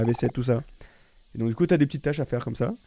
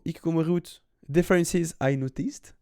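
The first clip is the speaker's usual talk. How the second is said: English accent; 4 semitones higher than usual. Shown as a demonstration. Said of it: "Sur mon accent anglais incroyable".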